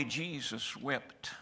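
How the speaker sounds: slow, soft and solemn; hushed and slow. Acted. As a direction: let the two words sink in quietly. Quiet verse after grief talk.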